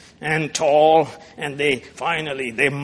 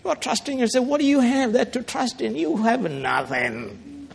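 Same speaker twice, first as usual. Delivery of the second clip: raised, sneering question fading out; mocking; 8 semitones higher than usual. Commander mocking Judah's self-trust, sneering. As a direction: taunt them that they have nothing. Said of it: "He's mocking".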